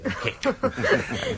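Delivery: laughing through the introduction; chuckling. Acted. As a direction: chuckle while presenting the ladies. Ingleby chuckles introducing the typists.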